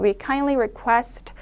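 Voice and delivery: very slow, break after "request"; pause after request. Shown as a demonstration. Teacher showing where to pause, slow and deliberate. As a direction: read slowly, stop after "request". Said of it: "request 하고 한번 끊어준 다음에".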